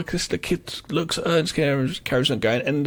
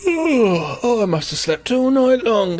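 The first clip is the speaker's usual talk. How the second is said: mock waking up; 5 semitones higher than usual. Acting out her waking after the brake slam, mock wonder. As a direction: play at coming round from sleep. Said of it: "looks up and goes".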